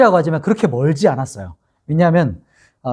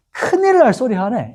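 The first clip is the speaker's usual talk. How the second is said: high-pitched Gyeongsang-dialect protest; regional dialect; 7 semitones higher than usual. Acted. Peter brushing off the servant girl, Gyeongsang dialect protest. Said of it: "이렇게 이제 사투리를 쓰면서".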